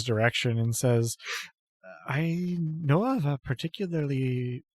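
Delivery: hinting at something tempting; sly devotee. Acted. GM voices Ilona, sly.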